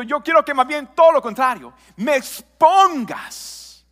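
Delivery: a hint of God's plea, preached with growing force; God speaking. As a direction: voice God's call to confess, slowing down and swelling. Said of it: "Dios lo que está diciendo".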